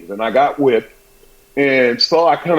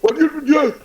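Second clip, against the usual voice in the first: high, mock-scolding mother; a touch of a startled, annoyed mother; sharp mother; 12 semitones higher than usual. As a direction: snap the question like a stern mama. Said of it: "she's like".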